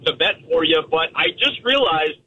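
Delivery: rough, gravelly voice on the phone. Real, not acted. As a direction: talk through a gravelly throat. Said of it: "in the gravelly voice form once again".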